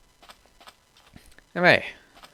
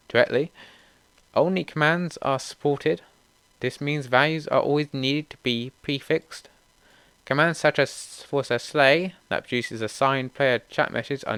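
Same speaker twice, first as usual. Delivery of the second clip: read-aloud update notes; 3 semitones higher, slower than usual. Real, not acted.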